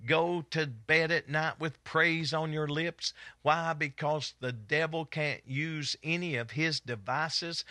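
rhythmic preacher's chant on a sustained tone; driving sermon delivery, phrase after phrase; fervent preaching. Real, not acted. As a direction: preach it in a rolling, half-sung cadence. Preaches on straight out of the song.

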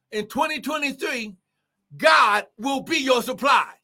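first take, called out strong and high; preached declaration. Real, not acted. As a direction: declare it out to the congregation. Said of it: "I'm gonna say it again".

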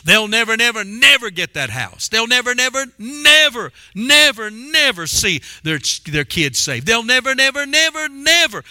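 sing-song mocking of the word never; preacher mimicking doubters who keep saying never; mock naysayer. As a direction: drone never over and over like a doubter. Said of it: "Why people like to say never?".

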